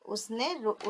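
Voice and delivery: ordinary delivery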